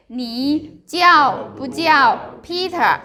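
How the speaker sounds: slow model of 你叫不叫Peter; practicing tones. Shown as a demonstration. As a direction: say 你叫不叫Peter slowly and clearly. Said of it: "another option say".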